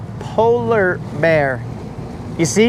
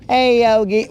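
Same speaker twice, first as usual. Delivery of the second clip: slightly higher, half-remembered little cartoon bear; Boo Boo Bear; 5 semitones higher than usual. Playing the sidekick to his brother, tentative cartoon impression. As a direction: lightly attempt a higher cartoon sidekick, unsure of it. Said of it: "I forgot what Boo Boo sounds like".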